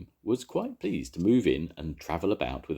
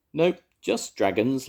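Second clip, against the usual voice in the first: laughing; 9 semitones higher, 5 dB louder than usual. A narrator's reading. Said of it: "laughed Jones".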